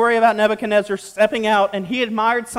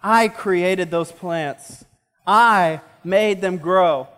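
slow, lower, self-satisfied boast; boastful king; 4 semitones lower, slower than usual. Retold or imitated. Preacher voicing Nebuchadnezzar's slow, lower boast. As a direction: savor each word like a proud king. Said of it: "he basically said".

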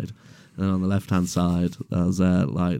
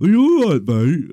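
much higher, louder chirpy mate; dopey driver; 9 semitones higher, 8 dB louder, faster than usual. Retold or imitated. Driver checking on the crushed porter, chirpy and loud. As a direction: sing it out like a clueless bloke. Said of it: "he was like".

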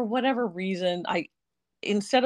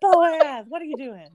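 cat voice; 7 semitones higher, 4 dB louder, slower than usual. Retold or imitated. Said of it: "a cat voice in the way you talk to your cats".

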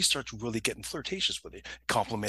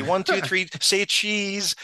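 loud, high photo countdown; family photographer; 7 semitones higher, 6 dB louder, much slower than usual. Retold or imitated. Mimicking someone taking a family picture, loud and chirpy. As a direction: call it out for the camera. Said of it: "like when they say".

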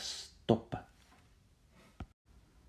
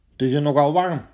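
calling out; 3 semitones higher, 6 dB louder, much faster than usual. Acted. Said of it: "riep de ene".

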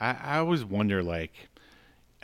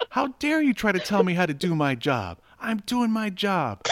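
mock yelling; 10 semitones higher than usual. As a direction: overplay the insistence, mock fury. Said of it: "picks up the phone and says".

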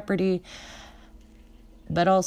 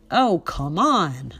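slow, louder shout with a laugh behind it; shouted, laughing hysterically; 5 dB louder, slower than usual. Retold or imitated. To the consular agent at the embassy counter, a louder incredulous shout. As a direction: hurl it at him, half laughing, half yelling. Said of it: "I shouted".

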